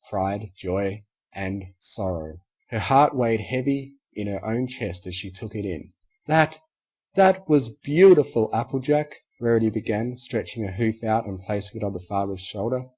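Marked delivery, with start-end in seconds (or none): 6.3-9.1 unicorn friend. Acted. Moved unicorn speaks to friend.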